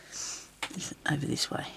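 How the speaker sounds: slow unvoiced whisper to herself. Real, not acted. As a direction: murmur it under your breath, slowly. Talking to herself while searching.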